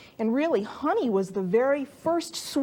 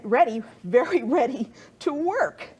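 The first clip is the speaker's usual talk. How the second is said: excited laugh; 3 dB louder than usual. Real, not acted. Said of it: "I'm getting so excited I can't even talk".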